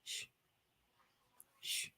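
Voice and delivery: soft unvoiced shh, shh, shh; shushing. Shown as a demonstration. Shushing the talkers who never follow through. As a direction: hush them with a whispered shh. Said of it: "I say".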